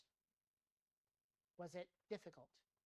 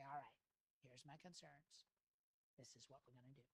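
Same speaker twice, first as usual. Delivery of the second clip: calm restart; 3 semitones lower, 8 dB quieter than usual. Acted. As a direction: begin afresh quietly and unhurriedly, easing the pressure. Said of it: "I'll just start over".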